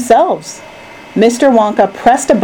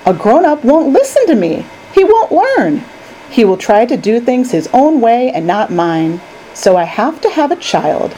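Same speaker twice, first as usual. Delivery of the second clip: lightly voiced, earnest candy maker; Mister Wonka. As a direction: explain it with animated, rising emphasis. Wonka explains his plan.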